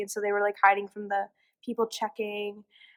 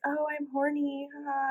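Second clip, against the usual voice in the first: imitated coy girlfriend; 5 semitones higher, 4 dB quieter than usual.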